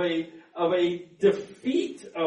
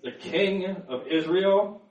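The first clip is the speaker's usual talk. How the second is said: mildly voiced questioning objection; understated challenge, lifted at the end; disapproving elders. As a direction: question the title as an affronted elder. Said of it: "the Jewish elders aren't gonna like the hearing of that".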